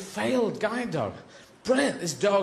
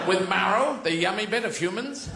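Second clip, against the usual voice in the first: lightly voiced dog, hopeful question; eager dog; 2 semitones higher than usual. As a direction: ask like a hungry dog. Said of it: "The dog goes".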